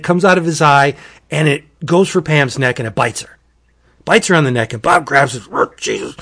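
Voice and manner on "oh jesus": breathy whispered gasp of shock; horrified whisper. Retold or imitated. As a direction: whisper it as if you can't believe your eyes. Bob grabs the biting snake.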